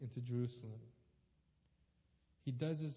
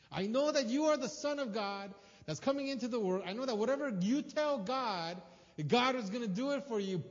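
pleading Martha; 7 semitones higher, 6 dB louder than usual. Retold or imitated. Martha pleading with Jesus, voiced.

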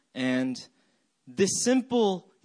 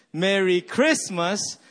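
"Christmas" with CHRIST punched loud; slow phrase, hit CHRIST in "Christmas"; stress on third syllable; 4 semitones higher, 5 dB louder, slower than usual. Shown as a demonstration. Pastor leading the game together, stress on CHRIST of "Christmas". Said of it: "you emphasize every syllable".

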